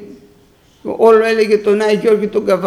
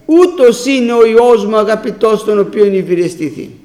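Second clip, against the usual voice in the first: proclaimed quote; 4 dB louder than usual. Retold or imitated. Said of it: "Ο Ιωάννης εδώ την άκουσε".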